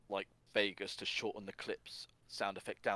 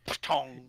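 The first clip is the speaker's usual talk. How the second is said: higher-pitched spoken impact noise; imitated shovel clang; 4 semitones higher, 6 dB louder than usual. Host acting out Sonic's shovel hit, imitated clang. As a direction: sound out the blow of a shovel.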